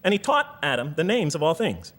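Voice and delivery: slow it right down so every word of the verse lands; slow careful reading. Shown as a demonstration. Rereading the verse slowly for the audience to notice. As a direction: read slowly, weighing each word. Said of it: "you gotta read these verses very carefully".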